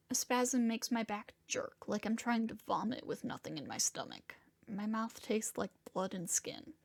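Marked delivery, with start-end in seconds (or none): none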